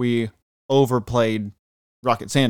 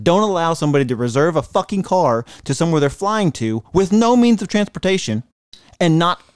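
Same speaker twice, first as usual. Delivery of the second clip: angry rant; 5 semitones higher than usual. Real, not acted. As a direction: vent the fury at the booking site. Ranting at Priceline over the car.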